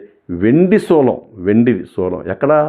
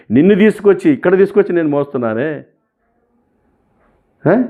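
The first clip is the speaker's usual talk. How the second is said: indignant protest; 6 semitones higher than usual. Retold or imitated. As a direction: throw the years of devotion back at the goddess in a higher voice. Confronting the goddess in anger. (దేవతను నిలదీస్తూ ఎక్కువ స్వరంతో కోపంగా)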